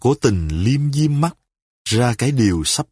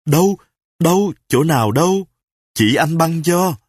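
higher, eager, hasty questions; hurried asking; 4 semitones higher than usual. Acted. A husband hastily asks where his wife's cut is. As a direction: rush the questions out. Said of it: "hấp tấp hỏi".

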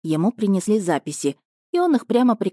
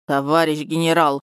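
plaintive drawl. Acted. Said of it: "жалобно протянул Краснобаев".

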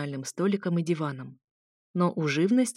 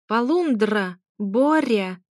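parrot shout; 3 semitones higher, 5 dB louder, much slower than usual. A narrator's reading. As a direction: yell it like a parrot alarm. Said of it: "доносился крик попугая". (крик попугая)

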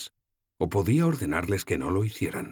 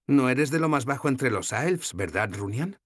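put-on higher, lighter young woman's voice; voiced young heroine, gently teasing; Sefawin's voice; 8 semitones higher than usual.

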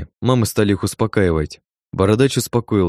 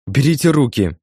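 shrieking; 6 semitones higher than usual. Acted. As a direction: screech for help. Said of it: "завопила женщина".

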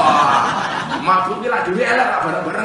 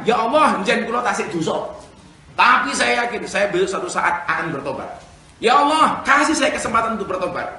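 louder, pleading repentance prayer; earnest prayer; 3 semitones higher, 3 dB louder than usual. Shown as a demonstration. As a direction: plead sincerely for a chance to repent. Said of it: "Tapi cukup katakan". (doa tobat yang sungguh-sungguh)

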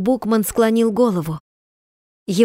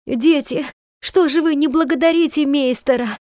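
выше, взволнованно, местами медленно; захлёбывайся счастьем, не находя слов; вне себя от радости; 4 semitones higher than usual. Acted. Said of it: "вне себя от радости". (мать, вне себя от радости, обращается к дочери и доктору)

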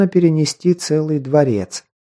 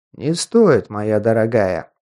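silky, creeping menace; insinuating voice; 3 semitones lower, slower than usual. Acted. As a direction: purr it into her ear. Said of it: "Вкрадчивый голос верховного некроманта". (вкрадчивый голос)

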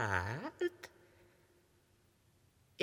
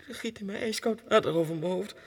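louder, faster outrage; outraged; 5 dB louder, faster than usual. Acted. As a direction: spit out the injustice. Tormented in the asylum. (verontwaardigd en luider)

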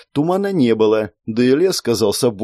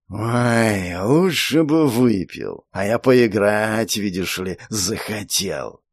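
serpent spirit voice; slower than usual. Acted.

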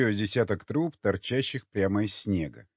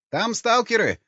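высокий громкий тревожный доклад; торопись поднять тревогу; возбуждённо; 12 semitones higher, 5 dB louder than usual. Acted. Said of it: "возбуждённо проговорил". (взволнованно, на высокой ноте)

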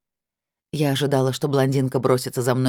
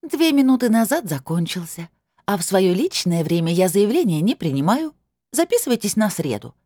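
gloating; 6 semitones higher than usual. A narrator's reading. Blonde continues gloating.

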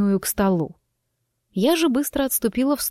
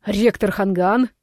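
рявкнул. Acted. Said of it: "рявкнул незнакомец".

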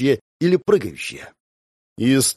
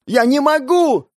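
high, slow shouted despair; desperate cry; 11 semitones higher, 3 dB louder, slower than usual. Acted. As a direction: cry out helplessly. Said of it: "кричала она".

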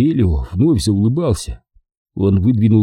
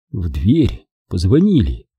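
usual speaking voice

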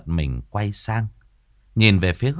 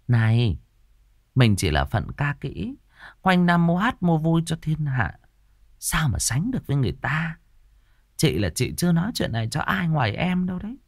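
high, sneering jealous woman; a higher, mocking troupe singer jabbing at a rival; catty gossip; 8 semitones higher than usual. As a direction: needle her with fake sweetness. Tư Hiền taunting Đào Nương.

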